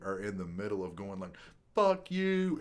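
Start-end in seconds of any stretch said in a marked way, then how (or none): 1.8-2.6 high, loud imitation of a curse; mock angry yell. Imitating people about to get pepper sprayed, mock angry yell. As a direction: act out someone yelling mid-rant.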